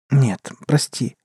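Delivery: slow apologetic words; guilty apology. Acted. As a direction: say sorry slowly, guiltily. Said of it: "успела виновато улыбнуться она".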